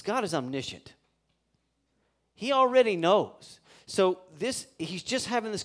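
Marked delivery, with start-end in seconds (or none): 2.3-3.6 high, loud, ringing emphasis on already; preacher stressing God already knows; emphatic point. Acted. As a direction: lift the voice and land hard on already.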